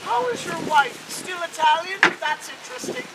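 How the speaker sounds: lilting granny with a prying question; Grandma Rose. Acted. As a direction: needle him sweetly as an Irish gran. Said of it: "Grandma Rose comes up to me and says".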